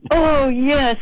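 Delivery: high, imitated Indian accent; bad Indian accent. Clerk from India assuring the singer, bad Indian accent. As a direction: affirm it in a mock Indian accent. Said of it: "That's my bad Indian accent".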